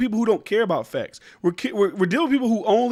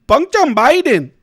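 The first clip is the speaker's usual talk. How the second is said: slow, higher and louder mock Asian accent, drawn out; 7 semitones higher, 7 dB louder, much slower than usual. Vlogger mocking a news anchor's speech, in a slow, loud exaggerated Asian accent. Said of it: "she was on Fox News saying".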